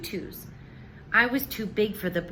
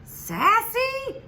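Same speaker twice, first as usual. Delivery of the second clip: high, loud call across the room; teacher calling out a pupil's name; 12 semitones higher, 4 dB louder than usual. Acted. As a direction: call her name out over the class. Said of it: "she called out".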